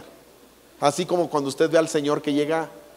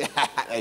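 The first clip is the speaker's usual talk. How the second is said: acted snicker; 3 semitones lower, 5 dB quieter than usual. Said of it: "Y Pedro así".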